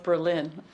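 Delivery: Berlin said as ber-LIN; stress on second syllable. Shown as a demonstration. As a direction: lean on the last syllable of Berlin. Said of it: "then they changed the accent".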